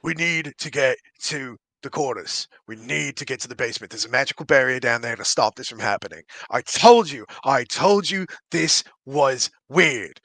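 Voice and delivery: lightly voiced dwarf, low and urgent; dwarf character. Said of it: "the dwarf says".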